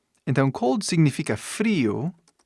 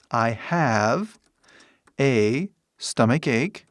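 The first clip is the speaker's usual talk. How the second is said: slow, paused English example; slow model sentence; much slower than usual. Shown as a demonstration. Teacher models first way to say it, slowly. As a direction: pause midway and space the words.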